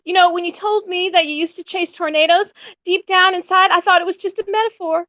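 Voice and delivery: earnest, a bit dreamy; quoting Melissa. Retold or imitated.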